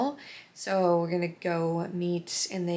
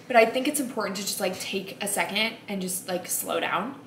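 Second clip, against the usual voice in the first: hiccups. Real, not acted. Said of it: "And now I have the hiccups".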